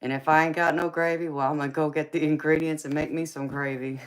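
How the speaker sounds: excited. Real, not acted. Hyping up her gravy.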